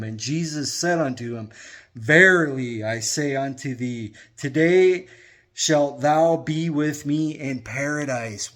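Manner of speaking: measured, solemn Bible reading; unhurried reverent recitation of scripture. Acted. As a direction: read the King James lines with gravity. Reads scripture passage aloud.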